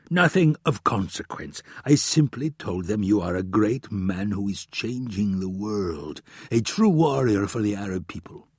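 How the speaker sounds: a hint of the prince, playing it down; lightly put-on voice for the prince; lightly acted royal benefactor making excuses; lightly voiced Omar.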